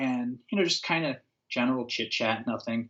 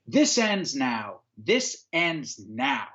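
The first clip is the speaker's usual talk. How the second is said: slow stern command; much slower than usual. Retold or imitated. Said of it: "he's like".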